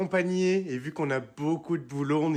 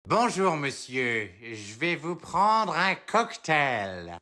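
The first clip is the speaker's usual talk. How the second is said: slow customer voice; much slower than usual. Acted.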